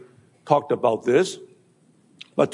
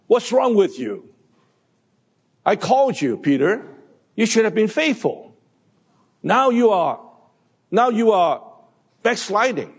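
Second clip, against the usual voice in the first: mock reprimand; 6 semitones higher than usual. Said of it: "without reprimanding him, rebuking him".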